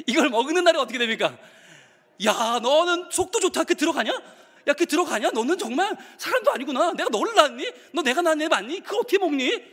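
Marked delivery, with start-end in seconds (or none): 2.2-9.6 mock outraged mother. Mother scolds child who eats dinner, mock outrage. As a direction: sneer at the kid for eating. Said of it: "이러죠".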